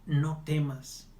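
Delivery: "No temas" drawn out slowly, weight on No; slow reassurance. Shown as a demonstration. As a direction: say "No temas" very slowly, as Jesus comforting. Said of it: "Escucha bien, Jesús te dice".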